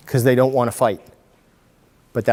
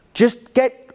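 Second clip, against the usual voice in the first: impatient parent; 11 semitones higher, 5 dB louder than usual. Retold or imitated. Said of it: "And you're like".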